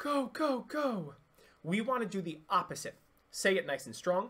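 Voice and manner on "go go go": exaggerated, overly airy, breathy, loose, pitched-up voice. Teaching chest voice, demonstrating what to avoid, exaggerated breathy voice. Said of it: "Over-exaggerate that breathiness".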